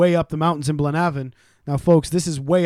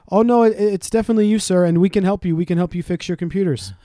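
higher-pitched imitation of a phone scammer; insistent scam caller; 4 semitones higher than usual. Scammer insists she can fix computers, lightly imitated caller. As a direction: lightly voice an eager call-centre helper.

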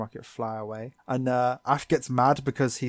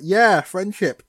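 mock cheer; 7 semitones higher, 8 dB louder, slower than usual. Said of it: "Ash is like".

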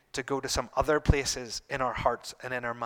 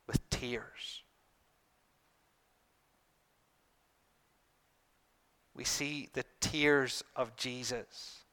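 soft, slow and hushed; 3 semitones lower, 6 dB quieter, slower than usual. Real, not acted. Preacher dwells on Jesus' tears.

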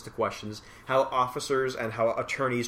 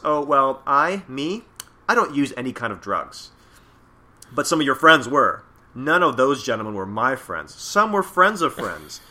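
smug gangster evasion; 2 semitones higher, 9 dB louder than usual. Acted. Reading Yakuza smugly dodging.

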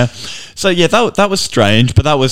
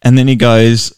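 ordinary talk, nothing marked

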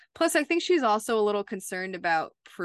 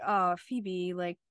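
mildly exasperated; slower than usual. Retold or imitated. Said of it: "almost seemed a little more like".

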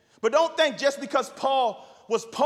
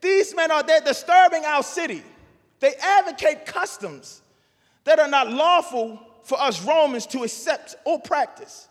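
mock accusers; 3 semitones higher, 4 dB louder than usual. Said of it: "they said".

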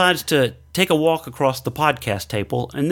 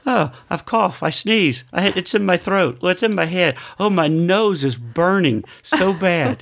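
mock whining; 3 semitones higher than usual. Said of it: "going through what I've been hearing".

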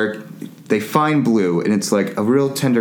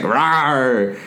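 mock roar; 2 semitones higher than usual. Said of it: "Macy jumps out and is like".

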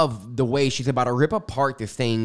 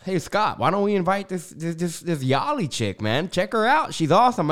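excited; 5 semitones higher than usual. Retold or imitated. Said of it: "And I was like".

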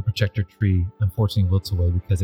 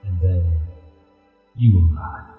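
deep rumbling voice. Acted. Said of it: "a deep rumbling voice emanates from this ghostly tiger".

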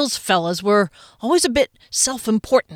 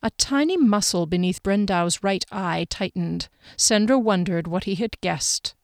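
measured, even audiobook reading; story narration. A narrator's reading. Narrator sets the scene in Sandra's kitchen, measured storytelling. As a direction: read the scene evenly and carefully. Reads the novel aloud.

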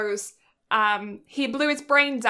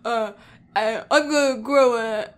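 Patrick straining; 4 dB louder than usual. Retold or imitated. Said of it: "Patrick's like".

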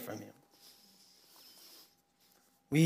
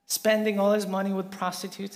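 higher and louder, slowing on the accusation; retold furious protest, raised and pressing; angry older brother; 4 semitones higher, 4 dB louder than usual. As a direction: hurl the complaint at the father. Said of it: "so angry, he says".

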